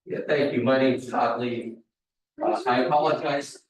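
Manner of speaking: talking through a face mask; muffled by a face mask. Real, not acted. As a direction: speak from behind a face mask. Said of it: "I apologize for wearing the mask".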